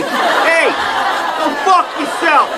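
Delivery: high, brash New York heckle; hammed-up New York street voice; New York accent. Shown as a demonstration. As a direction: do an exaggerated New Yorker calling someone out. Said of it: "here's a New York accent for you".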